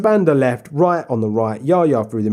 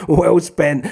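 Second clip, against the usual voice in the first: mock sarcastic praise; 4 semitones higher than usual. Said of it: "we'll all be going".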